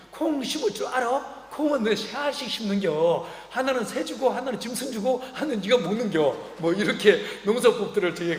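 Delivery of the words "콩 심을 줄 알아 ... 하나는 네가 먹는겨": a grandmother scolding the newcomer how to plant beans; country grandmother voice. Retold or imitated. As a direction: teach the city boy like a village granny. Village grandmother teaching farming.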